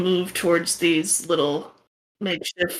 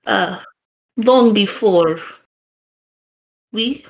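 put-on Russian accent. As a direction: tell the legend gravely, Russian accent. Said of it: "the shaman's gonna sound a lot like the guy you just talked to".

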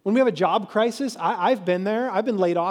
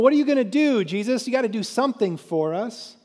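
raised, mock-demanding challenge; demanding crowd; 4 semitones higher, 4 dB louder than usual. Crowd challenging Jesus to do something, mock demanding. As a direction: press him like an impatient crowd.

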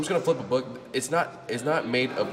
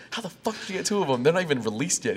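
incredulous; 9 semitones higher than usual. Retold or imitated. Retold disbelief at friend.

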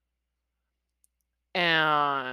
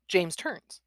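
usual speaking voice

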